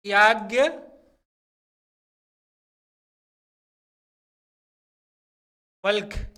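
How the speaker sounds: याज्ञवल्क्य drawn out very slowly, every conjunct clear; slow spelled-out pronunciation. Shown as a demonstration. Teacher slowly sounds out याज्ञवल्क्य for students. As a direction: break याज्ञवल्क्य into its letters slowly. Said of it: "इस तरह से वा आधा ला".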